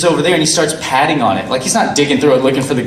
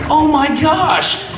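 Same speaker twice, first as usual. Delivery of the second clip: very high, slow, laughing "oh my gosh"; retelling discovering the con, laughing and high; laughing disbelief; slower than usual. Retold or imitated. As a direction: squeal it out in amused shock. Retold shock at the scam.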